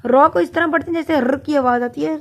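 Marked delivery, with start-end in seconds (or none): 1.2-1.4 ر rolled with a vibrating tongue; trilled r. Shown as a demonstration. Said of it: "زبان vibrate کرتی ہے".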